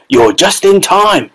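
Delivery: put-on an old man calling out in delight; excited shout. A narrator's reading. Grandfather rushing the family, eager shout. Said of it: "shouted Grandpa Joe".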